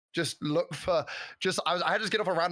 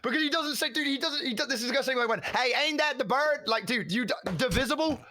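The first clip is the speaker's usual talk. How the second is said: high, mocking country bumpkin voice; mock hick voice; 7 semitones higher than usual. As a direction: play a dumb hick, amazed by a big word.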